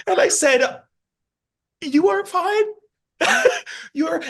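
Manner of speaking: high-pitched, laughing through the quote; retold reassurance dissolving into laughter. Real, not acted. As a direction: say it while cracking up. Retelling reassuring a teary student.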